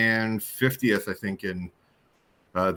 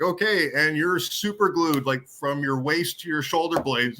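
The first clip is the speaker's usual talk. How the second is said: high, slow, drawn-out mock hypnotist voice; imitating hypnotist; 7 semitones higher, slower than usual. Recalling Jim the hypnotist gluing him down, in a slow mock trance voice. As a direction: play the hypnotist, pitched up and stretched slow. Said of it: "you were like".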